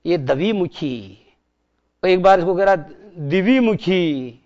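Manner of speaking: lightly voiced clumsy teacher drawling द्विमुखी; slow, mock-careful द्विमुखी. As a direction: poke fun at a careless schoolmaster. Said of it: "इसको पढ़ाने वाला master पढ़ा रहा साहब".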